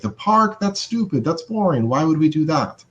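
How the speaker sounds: high-pitched, scornful disbelief; acted-out dismissive retort; jumping down their throat. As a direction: shoot the idea down in disbelief. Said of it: "to jump down their throat".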